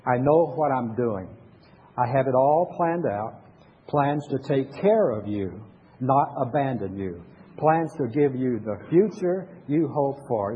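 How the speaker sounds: slow, solemn reading of scripture. Shown as a demonstration. Pastor leading the congregation in reading Jeremiah aloud, slow and solemn. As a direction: read it out slowly for the congregation to follow. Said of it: "Read with me, Jeremiah".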